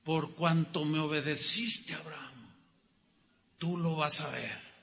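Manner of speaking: the preacher softly echoing God's words to the congregation. Acted. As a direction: bring it down to a hush.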